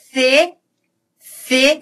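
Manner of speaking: "C" starting with a th sound; tongue between the teeth on "C"; ceceo with C. Shown as a demonstration. Teacher showing ceceo, th sound at the start. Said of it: "eu tenho ceceio, com C".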